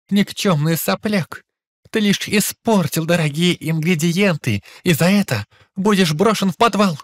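lightly voiced grim old master; a hint of a gloomy, stern master; sepulchral old master voice. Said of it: "простонал за могильным голосом".

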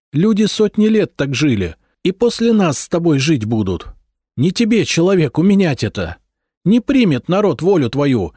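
high, loud, defiant wife; angry wife. A narrator's reading. Mother defying her husband over her sons, high and loud. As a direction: fight back hard for her sons.

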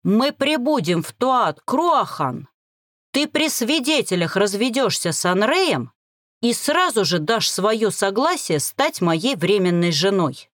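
restrained anger. Acted. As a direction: force each word out, holding anger in. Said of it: "с трудом сдерживаясь". (сдержанная ярость, медленно)

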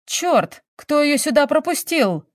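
high-pitched, irritated outburst; angry yell. A narrator's reading. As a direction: yell it at your subordinates. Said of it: "заорал следователь". (сердитый окрик)

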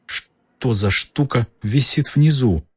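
uneasy, voice trembling a little; slightly shaky voice. Acted. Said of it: "с лёгкой дрожью в голосе".

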